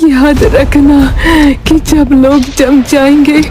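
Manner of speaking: a final urgent whisper of wisdom; grandmother's last words, slowly. Acted.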